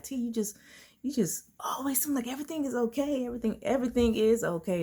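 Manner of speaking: high-pitched mimicking voice; imitating other people. People telling her she seems okay, high mimicking voice. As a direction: put on others' high chirp about you.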